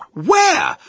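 high, loud questioning call; searching father's holler; baffled shout. A narrator's reading. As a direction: shout it in total bewilderment. Baffled dad shouts for hidden boy.

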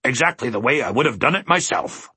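hearty, self-satisfied humbug voice; jovial bluster. A narrator's reading. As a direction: boast it cheerfully, pitch up. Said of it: "commented the humbug jovially".

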